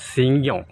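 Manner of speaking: 'சிங்கம்' set apart as the actor pronounces it; நடிகரின் உச்சரிப்பு. Shown as a demonstration. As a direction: stress 'சிங்கம்' with a slight y-glide after the g. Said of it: "அவர் உச்சரிப்பு அப்படி தான் வரும்". ('சிங்கம்' என்பதை நடிகர் பாணியில் அழுத்தி உச்சரிப்பு)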